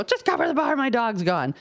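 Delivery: frantic owner insisting to a friend; urgent repeat. Retold or imitated. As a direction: push it, no time to explain. Repeats order, dog lost.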